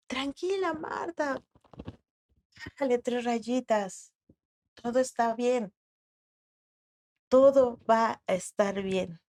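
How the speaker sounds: calm and peaceful. Retold or imitated. Jesus calms grieving Marta, soft and peaceful. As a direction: soothe her like a calm friend. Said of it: "me puedo imaginar a Jesús con una calma, con una tranquilidad, con una paz".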